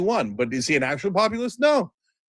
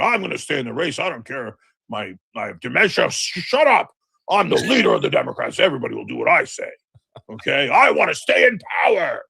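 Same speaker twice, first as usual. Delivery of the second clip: put-on ranting old politician, ending in a shout; mock Biden rant. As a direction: rant it, building to a yell.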